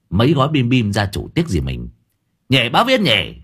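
lightly voiced lazy brother answering back; cheeky younger brother. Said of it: "thằng Tưởng nó cười hề hề".

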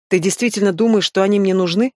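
plain reading voice

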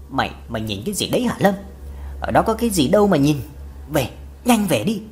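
a touch of panic, hurried; mildly frightened. Acted. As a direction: rush the words, mildly scared. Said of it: "sợ hãi nói". (mẹ hoảng hốt giục con về, nói nhanh)

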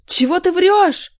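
high, loud and slow indignant shout; angry yell. A narrator's reading. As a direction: yell back at the accuser. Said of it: "заорал Артём".

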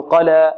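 mimicked wrong ending on قال; faulty final alif. Shown as a demonstration. Teacher imitating how some recite it, faulty alif. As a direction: say قال as "qalaa" with the last vowel tilted toward e. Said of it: "أو البعض يقول".

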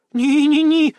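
high, loud squeaky no-no-no; squeal. A narrator's reading. Girl squealing refusal to stop her. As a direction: squeal it out waving him off. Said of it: "запищала она".

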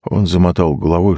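plain reading voice

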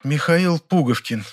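slow, musing repetition of the name; thoughtful murmur. A narrator's reading. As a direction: roll the name over slowly. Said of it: "задумчиво пробормотала". (задумчивое бормотание)

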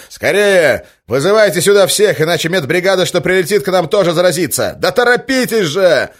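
high, loud, pressing shout; urgent shouting. Acted. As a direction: hurry them with a loud high cry. Ivan urging staff in panic.

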